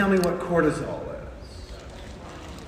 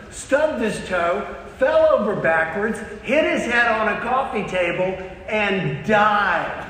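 dramatic one-upping; 3 semitones higher than usual. Acted. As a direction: top their story, building to the fatal ending. One-upping with an uncle's worse story.

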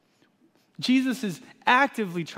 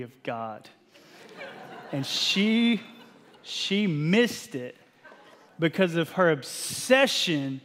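slow sermon emphasis; slower than usual. Acted. Preaching slow emphatic point.

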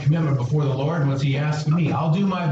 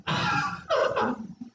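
high laugh; 6 dB quieter than usual. Real, not acted. Laughs at own joke.

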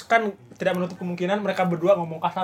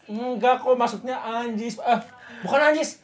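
higher-pitched mock denial; child making excuses; 4 semitones higher, slower than usual. Child covers up swearing to mother, playful higher-pitched denial. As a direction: wriggle out of it, stretching the words.

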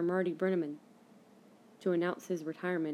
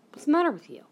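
imitating mom, higher and louder; mock demanding motherly question; exasperated mom; 8 semitones higher, 7 dB louder, faster than usual. Mom questions tearful daughter, exasperated imitation. Voices mom confronting her in tears.

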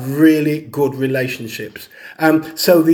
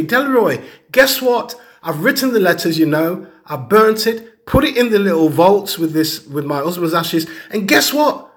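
excited retelling. Retold or imitated. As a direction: retell it as a thrilled client blurting out news. Client bursting with good news.

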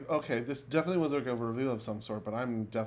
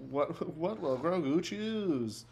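mock announcer; 3 semitones higher, much slower than usual. Echoing dramatic cliffhanger.

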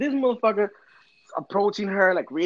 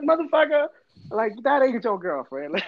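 raised, incredulous retort; mock exasperated dad; 4 semitones higher than usual. Dad scoffs at his son's girlfriend claim, raised pitch.

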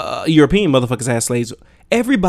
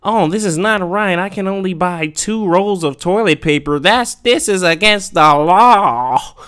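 mock complaining shopper; 5 semitones higher than usual. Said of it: "white people get upset over the smallest".

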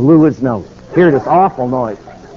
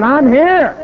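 retold shout; 9 semitones higher than usual. Man shouting his arrival.

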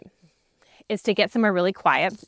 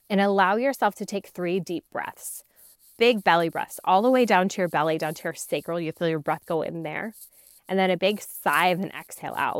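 guided meditation. Acted. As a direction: calmly guide their breathing. Leads a meditation.

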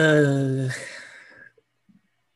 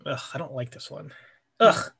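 annoyed ugh; 3 dB quieter than usual. Real, not acted. Annoyed at the game.

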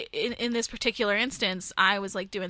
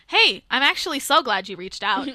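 overly polite canned reply; robotic customer service voice; 2 semitones higher, 4 dB louder than usual. Retold or imitated. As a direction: read it like a form email. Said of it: "the funniest ones were".

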